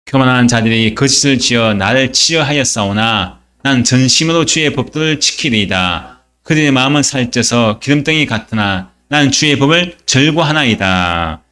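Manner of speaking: measured recitation of a verse; scripture reading. Acted. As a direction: lead the congregation in reading aloud. Reads scripture with congregation.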